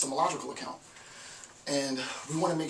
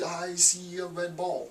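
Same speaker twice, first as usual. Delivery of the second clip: lightly imitated parrot, higher and slow; parrot mimicry; 5 semitones higher, slower than usual. Shown as a demonstration. Lecturer imitating a parrot copying the tones, higher and slow. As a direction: copy the tones like a bird, high and slow. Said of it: "a mimic of the octaves and tones".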